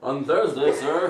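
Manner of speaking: booming hype announcer call; loud, laughing announcer shout; fighting game announcer. Acted. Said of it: "the announcer voice you did for that".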